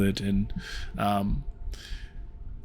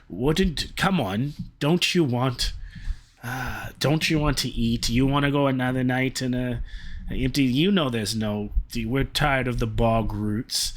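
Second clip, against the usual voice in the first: goblin voice. Acted. Goblin pleads for food.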